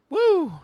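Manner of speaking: high, loud "woo"; excited whoop. Real, not acted. Hyping up the new year, excited whoop. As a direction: let out a sudden piercing cheer. Hyping himself up for more endorphins.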